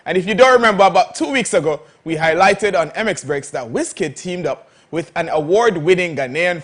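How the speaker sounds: upbeat sponsored segment announcer; host read. Acted. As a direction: present the segment brightly.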